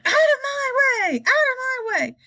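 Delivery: put-on wild old grandma bellowing to clear the way; shouting. A narrator's reading. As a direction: bellow it while charging through.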